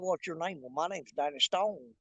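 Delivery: put-on low, soft country hick accent; put-on country hick talk. Two strangers trading names in elevator, put-on country hick accent. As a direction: play both men as soft-spoken country hicks. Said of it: "started talking like that right there".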